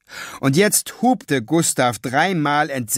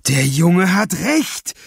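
louder, slow, agitated cry; excited shout; 5 semitones higher, 5 dB louder, slower than usual. A narrator's reading. Cashier exclaiming the boy is right, excited and loud. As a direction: blurt it out pale with excitement. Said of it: "schrie der Kassierer blass vor Erregung".

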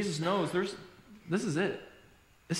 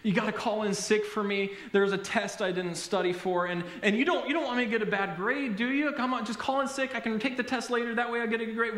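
put-on higher, pleading kid's wheedle; begging child; 4 semitones higher than usual. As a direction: imitate a child pleading with mom. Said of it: "the child who begs and pleads".

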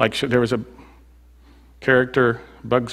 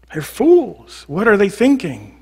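scornful; 8 semitones higher, slower than usual. Acted. Preacher voices scorn.

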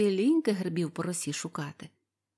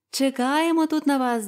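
maidens calling; 6 semitones higher, 6 dB louder than usual. A narrator's reading. Maidens call to the old man.

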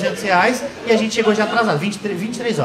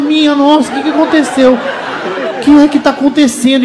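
mock bewildered panic; 5 semitones higher, 4 dB louder, slower than usual.

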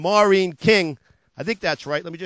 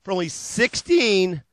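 hard-sell ad read; 2 semitones lower than usual. Acted. Car dealer pitching used cars to TV viewers, hard-sell ad voice. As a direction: sell it like a late-night car ad.

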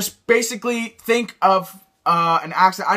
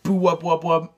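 deep beatbox whoop; 3 semitones lower than usual. Shown as a demonstration. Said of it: "saying whoop in that voice".

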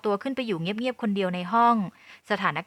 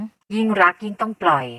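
firm; 4 dB louder than usual. A narrator's reading. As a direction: press each word home steadily. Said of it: "แม่พูดด้วยน้ำเสียงหนักแน่น". (น้ำเสียงหนักแน่น)

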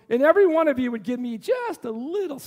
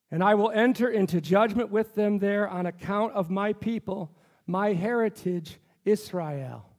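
scripture reading. Acted. The pastor reads Joel's prophecy aloud to the congregation, solemnly. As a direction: proclaim it like the Lord speaking.

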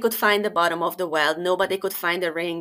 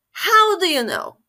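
startled question; 10 semitones higher, 4 dB louder than usual. Acted. King asks, startled.

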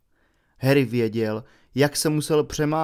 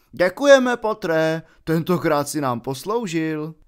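mocking thanks; 3 semitones higher, 4 dB louder than usual. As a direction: gloat sarcastically at the loser. Slytherins jeer at Harry.

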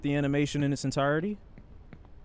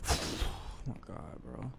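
whispered oh my God; 10 semitones lower, 12 dB quieter than usual. Real, not acted. Exasperated at the game.

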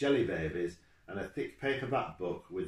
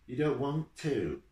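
higher, louder, drawn-out challenge; harsh; 8 semitones higher, 5 dB louder, slower than usual. A narrator's reading. Driver challenging a sulking boy on the coach, harsh. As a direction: throw it back at the boy, harsh and slow. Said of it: "man's voice was harsh".

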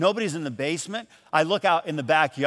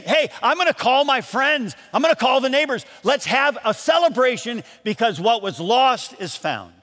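overjoyed; 5 semitones higher than usual. Acted. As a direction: celebrate it with the neighbors. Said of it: "she is so overjoyed".

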